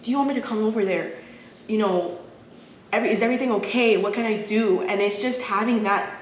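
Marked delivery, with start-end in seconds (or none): 0.0-4.8 mom's worried offer. Retold or imitated. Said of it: "she's like".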